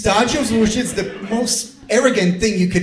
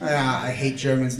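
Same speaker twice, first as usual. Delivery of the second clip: low, soft mock grumble; 8 semitones lower, 7 dB quieter than usual. Comic grumbling about Germans to the crowd, low and soft. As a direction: mutter it under the breath as a joke. Fake grumble, then takes it back.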